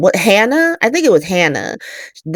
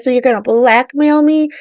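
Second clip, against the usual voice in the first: mock affronted; 8 semitones higher than usual. Retold DA challenges blackmail threat.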